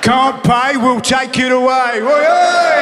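loud, high barking bailiff impression; rowdy TV bailiff. Comic mocking a TV bailiff, loud rowdy shout. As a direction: bellow it like a bailiff on telly.

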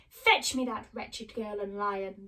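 slow, lightly voiced witch; deliberate order with a hint of witch; wicked witch commanding. Witch orders the monkey king, commanding.

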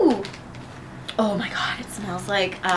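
talking while chewing; crunching snack between words; mouth full of chips. Real, not acted. Seen 1: Left speaker bites chip, chewing while speaking during labelled words.

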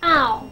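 ow as a gliding vowel, ah toward oo; ow as a clear standalone diphthong; vowel demonstration. Shown as a demonstration. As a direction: say ow alone as a model sound. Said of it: "它常常会发作".

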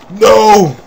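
sharp high shout of alarm; loud no. Real, not acted. Player shouting at an enemy, alarmed. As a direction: yell it as the enemy closes in.

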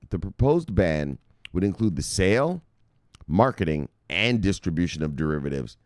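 deliberate, drawn-out reading of "proposed"; read slowly. Shown as a demonstration. Trader rereads the ban for his viewers: slowly. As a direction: take it slowly so viewers get it. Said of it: "let's talk it slowly so we can get this".

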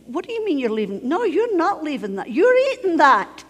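lightly voiced father, building to a loud order; mock indignation, firmer with each sentence; stern father. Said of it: "And my father would say".

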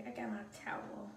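unvoiced whisper. Real, not acted. Back with the towel, whispering to viewers. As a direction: breathe the words.

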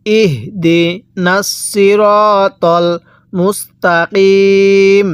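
long drawn-out chanted recitation; ধীর তিলাওয়াত; slow Quran recitation. Shown as a demonstration. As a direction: lead the verse slowly, as a model. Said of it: "কিভাবে পড়ব?".

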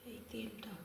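soft whisper so nobody wakes. Real, not acted. Whispering in the kitchen while family sleeps. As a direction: hush it, just breath. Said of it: "খুব আস্তে আস্তে কথা বলছি".

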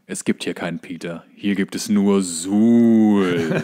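low, very slow drawn-out quote; monster voice. Retold or imitated. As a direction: drag it out like a fridge monster. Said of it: "und er sagt". (tiefes, langsam gedehntes Monsterzitat)

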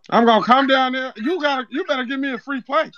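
put-on Zeke accent; Zeke-style street accent. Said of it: "that accent funny as shit".

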